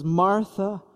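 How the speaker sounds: gently calling a loved one's name; Jesus gently addressing the upset Martha, tender; compassionate. Acted. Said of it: "They're words of affection".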